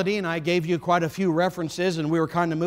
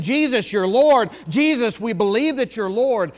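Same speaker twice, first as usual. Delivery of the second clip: believers pleading with Jesus, pitched higher and louder; emphatic pleading; 4 semitones higher, 5 dB louder than usual. Retold or imitated. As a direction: plead it earnestly as a crowd of believers. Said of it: "professing believers emphatically pleading".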